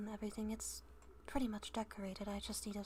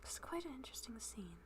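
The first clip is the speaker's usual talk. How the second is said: talking while munching chips; crunching chips; 6 dB quieter than usual. Real, not acted. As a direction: whisper through a mouthful of chips. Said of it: "it appears you hear me eating".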